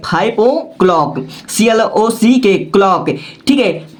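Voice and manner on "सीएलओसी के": slow run of letter names; spelling out. Shown as a demonstration. Teacher spelling clock for students, slow letter by letter. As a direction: spell it out slowly for note-takers.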